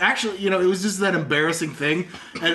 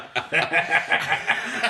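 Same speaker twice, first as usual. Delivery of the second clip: mocking dad-style chuckle; imitated dad laugh. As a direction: act out a dad cracking up. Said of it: "like dads do".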